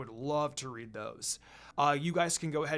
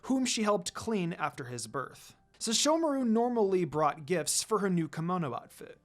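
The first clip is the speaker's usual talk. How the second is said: steady storytelling read of a fanfic; story narration; 2 semitones higher, 3 dB louder than usual. A narrator's reading. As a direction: read the chapter like a narrator to listeners. Reads fanfic story aloud.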